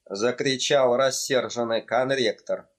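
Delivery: usual speaking voice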